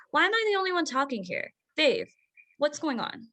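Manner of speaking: quick, exasperated demand. Acted. Mother snaps at silent husband, exasperated. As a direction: push him for an answer, fed up.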